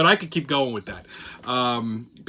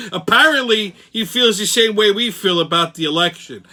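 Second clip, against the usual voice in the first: put-on old-school Brooklynese; Brooklyn accent. Crazy train host mocking the news for listeners, Brooklynese. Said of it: "go with the old Brooklynese".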